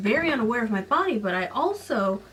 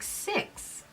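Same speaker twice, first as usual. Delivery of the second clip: whispered aside; 11 semitones higher, 10 dB quieter than usual. Real, not acted. Joking aside on her age.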